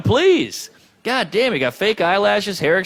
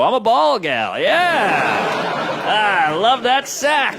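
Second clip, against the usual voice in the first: mock lusty woman; 3 semitones higher, much slower than usual. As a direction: ham up a woman raving about balls. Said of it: "You never see a woman go".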